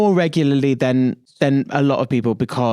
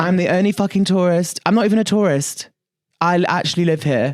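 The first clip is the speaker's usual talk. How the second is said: a hammed-up American accent, pitched higher; playful American accent, smug New Yorker; mock American accent; 5 semitones higher than usual. Boasting to the co-host about New York in a mock American accent. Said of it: "You were probably doing an American accent".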